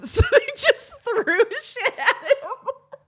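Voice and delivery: high-pitched, talking through real laughter; cracking up. Real, not acted. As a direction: barely get it out for laughing. Cracks up telling the story.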